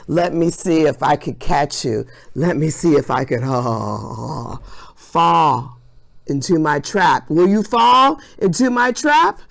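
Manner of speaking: a hint of a scheming villain; unhinged villain. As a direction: tease like a sneaky trickster. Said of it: "Insert maniacal laugh here".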